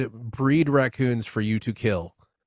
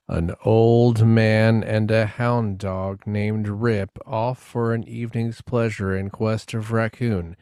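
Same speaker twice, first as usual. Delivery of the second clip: prologue narration. Acted. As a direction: intone it like Rod Serling opening the show. Reads the episode prologue.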